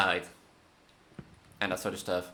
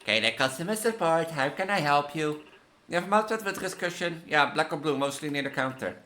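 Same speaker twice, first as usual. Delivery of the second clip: lively, higher than own chat; reading game dialogue; 6 semitones higher than usual. Acted. Support agent helping a caller, acted dialogue read-aloud. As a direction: voice the tech support call.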